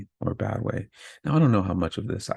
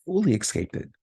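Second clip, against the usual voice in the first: much higher, proud burst; triumphant; 10 semitones higher than usual. Real, not acted. Survivor telling listeners, triumphant and much higher. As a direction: throw it up high in triumph. Triumphant about escaping murderer.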